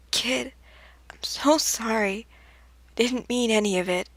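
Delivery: breathless whisper; a small, ashamed whisper; whispered apology. Acted. Sans whispering an apology to Frisk after hurting them.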